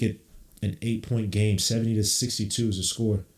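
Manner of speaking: steady running game call; live play-by-play. Acted. Streamer narrating Knicks possessions, running commentary. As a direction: call each pass as it happens.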